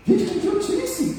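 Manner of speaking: scornful exclamation. Real, not acted. Pastor scoffing at the deception.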